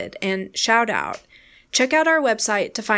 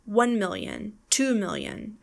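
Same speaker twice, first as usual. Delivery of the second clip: ONE million, TWO million; stressed leading number. Shown as a demonstration. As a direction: punch one and two, let million fall away. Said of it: "the same goes for million".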